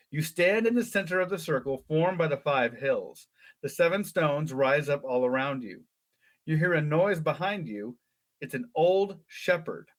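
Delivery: lively read-aloud storytelling; story narration. A narrator's reading. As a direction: read it like a children's adventure book. Reads gamebook story aloud.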